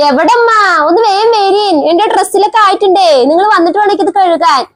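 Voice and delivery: put-on a young wife hurrying her mother-in-law; daughter-in-law voice. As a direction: call the mother-in-law over, a bit whiny.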